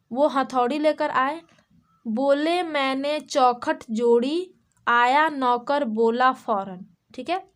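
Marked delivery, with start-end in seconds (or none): 2.0-6.8 put-on slow sing-song reading of a children's rhyme; rhyme recitation. Shown as a demonstration. Teacher to kids, reciting the rhyme slowly. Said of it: "okay, देखिए".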